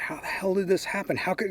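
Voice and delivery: high, loud, frantic retelling of his own alarm; panicked outburst. Retold or imitated. Frantic to his brother about the song on radio, high and loud.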